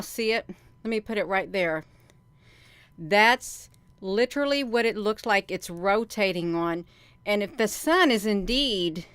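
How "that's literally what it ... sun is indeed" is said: breathless, winded talk; out of breath. Real, not acted. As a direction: speak as if short of breath. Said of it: "I'm out of breath".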